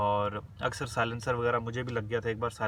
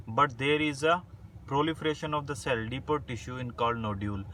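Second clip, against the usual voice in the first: slow, spaced-out dictation reading; word by word like dictating notes; 2 semitones higher, much slower than usual. Shown as a demonstration. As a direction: read the definition slowly so students can write it down. Reads English definition for dictation.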